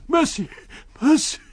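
high, loud pleading shriek; wild scream. A narrator's reading. The beaten invisible man begging, wild scream. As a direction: scream for mercy. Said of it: "a wild scream of".

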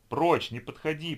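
loud, panicked cry to back off; terrified shout. A narrator's reading. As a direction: yell in terror. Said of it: "попятился назад Бекас".

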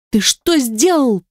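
a slow, high stunned squeak. Acted. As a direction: squeak it out in shock. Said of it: "пропищала я".

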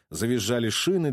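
plain reading voice

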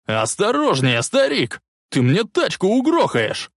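nervous passenger shouting at a reckless driver; yelling. A narrator's reading. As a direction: yell at the old man to watch it.

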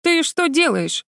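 high, slow, astonished cry; surprised gasp. A narrator's reading. Ghost girl sees Vera run into the water, astonished gasp. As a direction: gasp it out in disbelief. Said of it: "удивлённо ахнула девочка-привидение".

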